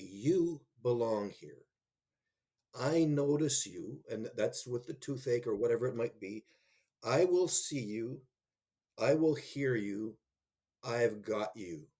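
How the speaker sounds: slow, gentle assurance to a student; a lightly voiced caring teacher; reassuring teacher. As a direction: speak it slowly, as if promising a child. Teacher speaking to each student.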